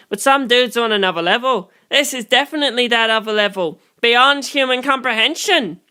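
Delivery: lightly voiced, pressing him to stay away; insistent warning.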